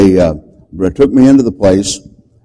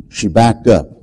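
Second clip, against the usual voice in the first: ordinary talk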